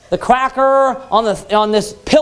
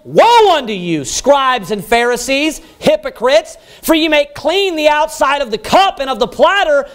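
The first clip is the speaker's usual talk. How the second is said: preaching at full force; 3 semitones higher than usual. Acted. Preacher thundering Christ's woes against the Pharisees, full force. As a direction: thunder each woe at the hypocrites.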